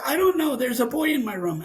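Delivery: high-pitched imitation of an upset kid; retold plaintive child's answer. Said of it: "why are you upset?".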